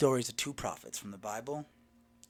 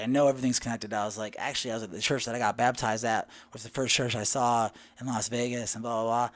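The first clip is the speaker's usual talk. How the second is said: louder eager chatter; excited chatter; 5 dB louder than usual. Retold or imitated. Telling the stranger about his church, excited. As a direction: talk her ear off, excited. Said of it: "I'm really excited".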